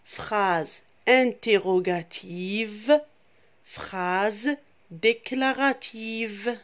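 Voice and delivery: put-on teacher leads children reciting sentence types; call to repeat. Shown as a demonstration. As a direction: lead the class in saying it together. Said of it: "Allez avec moi les enfants".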